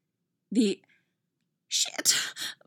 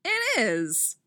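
retort; 4 semitones higher than usual. Acted. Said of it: "Clary retorted".

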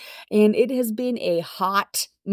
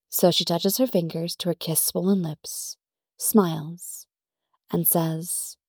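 story narration. A narrator's reading. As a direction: narrate the romance in an even storytelling voice. Narrates the fanfic.

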